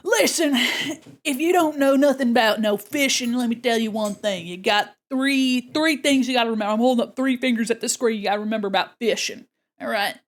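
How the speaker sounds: lightly voiced Southern fisherman, hearty advice. Plays Southern fisherman giving advice.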